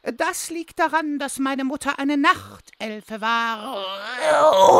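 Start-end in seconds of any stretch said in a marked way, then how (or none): 1.2-4.8 slow, lightly voiced elf mother; night elf mother voice. Goblin speaking in his night elf mother's slow voice. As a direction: draw it out slowly like an elegant night elf. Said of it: "mit zwei unterschiedlichen Stimmen sprichst".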